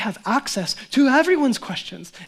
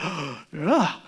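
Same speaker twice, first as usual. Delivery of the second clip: shocked gasp; 4 semitones lower than usual. Retold or imitated. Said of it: "thrown into the deep end".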